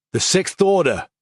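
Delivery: called out high, voice cracking with tears; voice breaking. Acted. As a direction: call back as her voice breaks. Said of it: "her voice breaking".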